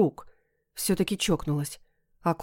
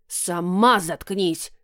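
оскорблённый крик; much slower than usual. Acted. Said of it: "оскорблённо закричали мне прямо в ухо".

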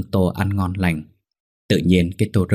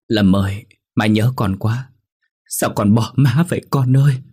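crying loudly; 3 semitones higher than usual. Acted. Mother wailing to her dead son, loudly crying. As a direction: cry out for the lost son. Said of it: "mà khóc to".

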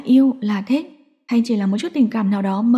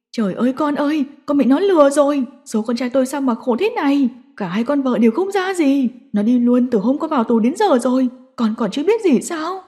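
wailing lament; 3 semitones higher than usual. Acted. Mother wails to her jailed son in grief. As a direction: cry out in bitter grief. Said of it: "uất ức gào lên".

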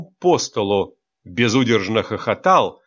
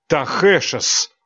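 swearing; 5 semitones higher, slower than usual. Acted. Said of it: "выругался Стилет".

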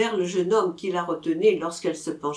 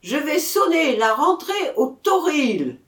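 loud, high arena call; shouted announcement; 8 semitones higher, 5 dB louder than usual. A narrator's reading. Bugler announces the bull's return, shouting high and loud. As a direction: call it out to the whole ring. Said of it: "cria le clairon".

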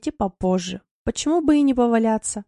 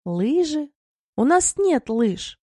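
high, glad proclamation, slower at the end; gleeful announcement; 6 semitones higher, slower than usual. Acted. Mila gleefully tells her husband they have no skis, triumphant. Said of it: "радостно возвестила Мила".

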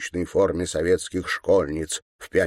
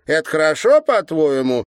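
put-on high, louder girlish sneer; mocking girl; 9 semitones higher, 7 dB louder than usual. A narrator's reading. Girl poking the governor with a stick, high mocking sneer. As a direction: taunt him like a spiteful schoolgirl.

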